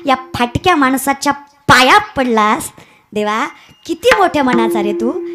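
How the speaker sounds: humbled awe before God; understated tearful devotion; tearful wonder. Acted. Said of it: "डोळ्यात पाणी आणून म्हणतात".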